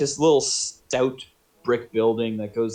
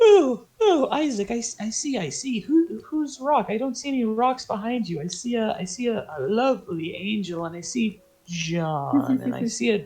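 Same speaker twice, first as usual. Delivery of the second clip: high-pitched, halting gnome voice; tiny gnome taking stock of strangers; high gnome, picking through the words; gnome surveying the party; 12 semitones higher than usual. Acted. Game master plays the gnome.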